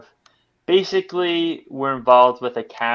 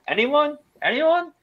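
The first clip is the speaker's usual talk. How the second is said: much higher, exaggerated rhetorical appeal; mock plea to nobody; 14 semitones higher than usual. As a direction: call out to an empty room, pitch way up. Mock appeal to absent audience.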